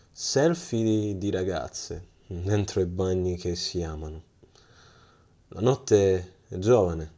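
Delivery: grand, swelling recital of a poem; theatrical swelling poetry reading. Pretend. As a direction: declaim it like a stage poet. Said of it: "reciterò una delle poesie".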